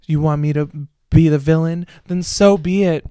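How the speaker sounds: lightly voiced dramatic teen villain line; a hint of a self-pitying diva declaring herself the villain; Cassie from Euphoria. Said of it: "he was fucking Cassie from Euphoria".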